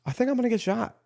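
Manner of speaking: replaying the scare with a jump in pitch; retold nervous fear. Liberal podcaster hearing a knock at the door, mock panic. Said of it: "I was nervous".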